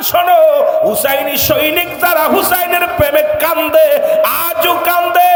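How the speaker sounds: impassioned preaching. Acted. Preacher stirring devotees to weep for Hussain, high impassioned cry. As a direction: preach fervently, stretching the last word of each phrase.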